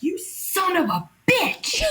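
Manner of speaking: high, slow comic indignation; mock outrage. Woman walking over to a catcalling cat, mock outrage. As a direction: draw out the insult at a high pitch.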